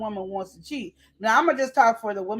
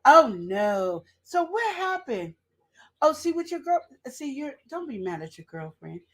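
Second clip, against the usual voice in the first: sly other woman. Acted. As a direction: coo like the sweet-talking coworker moving in. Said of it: "she slithered on in there".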